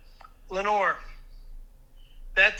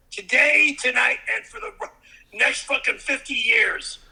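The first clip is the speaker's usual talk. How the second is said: angry rant. Real, not acted. Ranting about sister-in-law.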